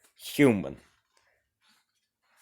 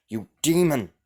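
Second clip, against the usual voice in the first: louder, higher battle cry; angry shout; 6 semitones higher, 6 dB louder than usual. Acted. Knight yelling at the ghost queen, angry shout. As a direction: shout it as you draw your sword.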